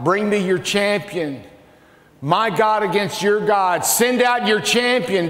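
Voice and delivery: Goliath calling out a challenge, rising; giant's challenge. Acted. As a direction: bellow the taunt to the enemy army.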